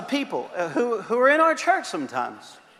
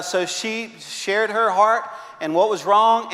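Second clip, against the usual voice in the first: normal talking voice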